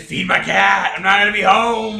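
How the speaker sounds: high, loud careless owner; loud whiny voice. Acted. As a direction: whine it loudly upward. Voicing careless cat owner.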